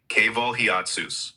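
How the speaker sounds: hiatus mispronounced as "hee-AHT-soos"; botched hiatus, with a "ts" in "hee-AHT-soos"; butchered hiatus. Real, not acted. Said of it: "butchering the".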